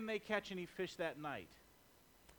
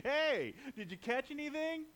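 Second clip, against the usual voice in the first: high, loud hail across the water; calling from shore; 6 semitones higher, 3 dB louder than usual. Acted. Jesus calling from the shore to the boat, loud and high. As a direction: shout out to the boat.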